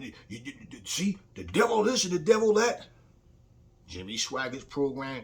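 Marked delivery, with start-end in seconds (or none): 0.0-2.9 much higher and louder, brushing it off; mock father's excuses. Father blames the devil for the scandal, hammed-up. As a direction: wave away the accusation like the indignant father.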